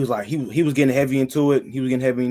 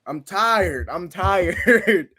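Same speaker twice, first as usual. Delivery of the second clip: higher, pleading acted complaint; retold cry of someone fed up; worn-out plea; 5 semitones higher, much slower than usual. Man retelling his plea to God, wearily exasperated.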